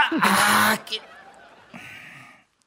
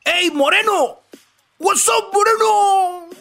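cocky customer; 9 semitones higher, slower than usual. Acted. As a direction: play the arrogant junior barking for a drink. Joke: rude guy orders at bar.

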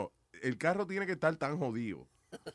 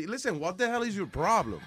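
indignant pushback; 5 semitones higher than usual. Pretend. Driver to rude cop, demanding to know why he's held. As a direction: stand up to the cop, demanding answers.

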